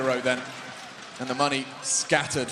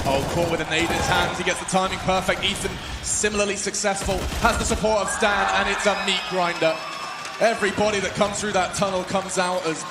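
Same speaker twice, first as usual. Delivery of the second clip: excited; 5 semitones higher than usual. Real, not acted. Big play in live cast.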